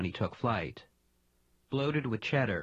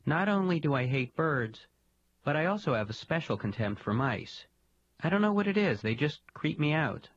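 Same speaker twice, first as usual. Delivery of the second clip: contemptuous disgust; 6 semitones higher than usual. Acted. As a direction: sneer at the thought of mice. Weasel voices contempt for mice.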